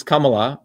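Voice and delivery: Kamala said the Tamil way, first vowel like "come"; Tamil pronunciation. Shown as a demonstration. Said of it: "that's how you say it".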